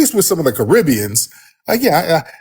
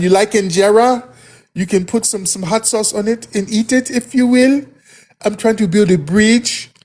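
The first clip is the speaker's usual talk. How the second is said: a touch higher, light and eager; lightly voiced friendly immigrant; eager bridge-builder in a light voice; 3 semitones higher than usual. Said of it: "your voice is real light".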